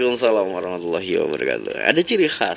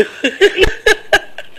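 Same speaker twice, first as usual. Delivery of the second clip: loud, high, airy laugh; 5 dB louder than usual. Real, not acted. Host laughs at own joke. (tertawa keras)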